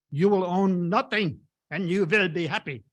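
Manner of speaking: a light mock German accent, imitating Klaus Schwab. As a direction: lightly put on heavy German accent, mocking. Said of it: "in his he-, heavy German accent".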